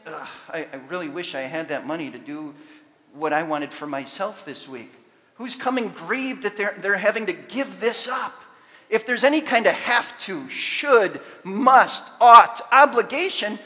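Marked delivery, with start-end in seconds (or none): 0.1-4.9 lightly voiced grudging giver, a little lower; mock the reluctant giver's complaint. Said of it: "who should be coming saying". 8.9-13.6 each word louder, rising to a near shout; building emphasis. Real, not acted. Building list of obligations.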